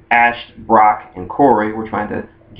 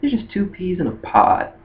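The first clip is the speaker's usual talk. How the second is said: Lyra; 7 semitones higher, 4 dB quieter than usual. Retold or imitated. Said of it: "And Lyra was like".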